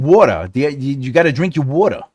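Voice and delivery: mild New York twang imitation; a hint of New York accent. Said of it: "New York twang".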